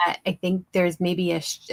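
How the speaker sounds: usual speaking voice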